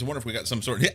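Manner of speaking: talking through a laugh; words breaking into laughter. Real, not acted. Laughs mid-sentence, then restarts.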